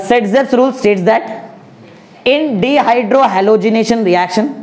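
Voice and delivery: very slow, word by word; spelled-out classroom dictation pace. Shown as a demonstration. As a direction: dictate it slowly for students to write. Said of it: "slow बोलता हूँ".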